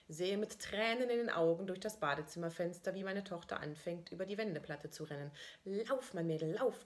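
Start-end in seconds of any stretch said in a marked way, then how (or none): 5.6-6.8 proud cheer. Retold or imitated. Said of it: "denke ich stolz".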